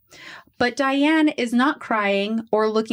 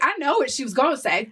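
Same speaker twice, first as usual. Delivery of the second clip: laughing; 3 semitones higher, faster than usual. Retold or imitated. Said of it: "the cops were like".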